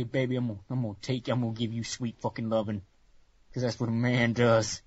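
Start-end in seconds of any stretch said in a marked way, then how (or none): 0.0-2.8 mock seductive. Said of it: "And they will say".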